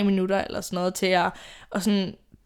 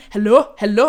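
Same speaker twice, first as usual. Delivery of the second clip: insistent hallo from outside the door, louder; mock call of the man at the door; 6 dB louder than usual. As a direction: imitate the man banging and calling. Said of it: "han blev bare ved med at sådan".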